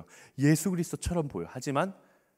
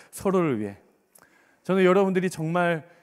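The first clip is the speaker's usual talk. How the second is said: ordinary talk, nothing marked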